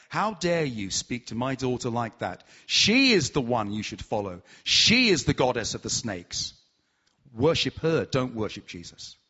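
mildly voiced indignant father; irate father. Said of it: "became extremely irate and said".

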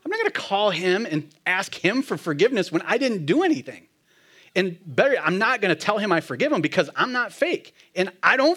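mock outrage at the very idea; indignant refusal. Refusing the friend at lunch, heated indignant protest.

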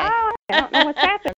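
patchy connection, fading in and out; bluetooth cutting out. Real, not acted. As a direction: voice breaking up over the line. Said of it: "you keep kinda coming in and out".

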